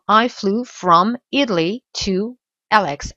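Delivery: slow "I flew from Italy to L X"; slow model reading. Shown as a demonstration. Teacher reads the full sentence as a model. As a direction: read the whole line slowly. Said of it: "six months ago".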